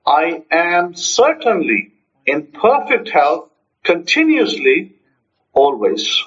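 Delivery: slow, deliberate phrases with weight on "certainly"; power-charged affirmation. Shown as a demonstration. Teacher modeling a health statement, power-charged. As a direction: declare "I am certainly" slowly and with conviction. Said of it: "what's the power charged statement".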